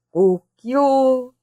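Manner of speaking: high, drawn-out cock-a-doodle-doo; rooster crow. Acted. Uncle joking he will turn rooster, crowing.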